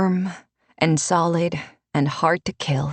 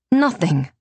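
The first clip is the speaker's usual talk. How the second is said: a flat, firm no. Acted. Renata answers Alessa's worry, firmly. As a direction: close the question down. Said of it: "Renata said firmly".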